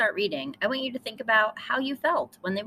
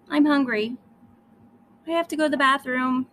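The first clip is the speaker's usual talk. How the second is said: whiny complaint; 6 semitones higher, 5 dB louder, faster than usual. Acted. Lily whining in chair.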